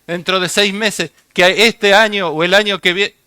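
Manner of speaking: hammed-up breathless warnings; mock alarmism. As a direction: rattle off rumours, swelling into false alarm. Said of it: "hay cantidad de gente gritando".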